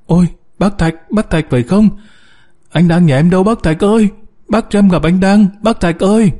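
high-pitched distressed wife; frantic pleading. A narrator's reading. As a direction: beg urgently, pitch held high throughout. Frantic wife begs for her husband.

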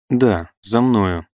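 slow, gloomy and heavy; gloomy reply. Acted. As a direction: drag it out darkly. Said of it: "мрачно возразил Пегасов". (мрачно и медленно)

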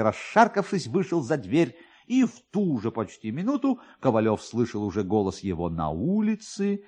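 usual speaking voice

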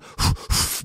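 heavy unvoiced exhale; hard breath out. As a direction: breathe out hard as if straining for air. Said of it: "Breathing hard".

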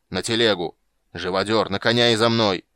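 loud orders building to a shout; rally the men forcefully; barked orders. A narrator's reading. Bogholt orders his men to mount, barking. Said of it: "рявкнул Богольд".

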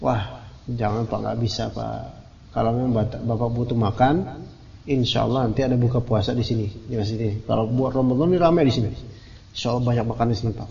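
put-on a courteous young man saying no kindly; polite, gentle refusal. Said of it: "anak-anak bilang dengan baik ya". (menolak dengan sopan dan lembut)

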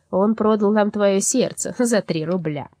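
slow, weighty accusation; slow insistence. Acted. Black soul slandering Mitya to the girl, slow and insistent. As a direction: press the lie home.

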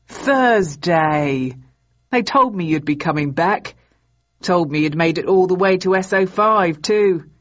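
put-on loud, glad hello to an old friend; cheerful sergeant greeting. A narrator's reading. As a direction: call out her name happily.

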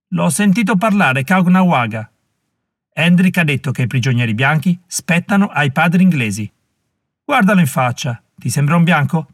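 arguing warrior. Acted. Second warrior arguing back over the drummer boy, heated. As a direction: push back hard at the other warrior.

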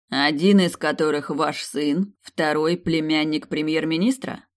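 cold, mocking young emperor; cold rasping evil emperor. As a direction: ruler scorning his ministers. Emperor mocks the minister. (холодный насмешливый император)

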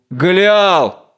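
drawn-out name, lightly called; answering call. Acted. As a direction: return a friend's call, restrained. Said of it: "отвечает ответным зовом". (протяжный ответный зов)

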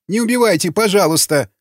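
high, pleading prisoner voice; beg, starting high and sinking on the last word; trembling plea. A narrator's reading. Captured gunner pleads with raiders, trembling plea. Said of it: "задрожал черновик".

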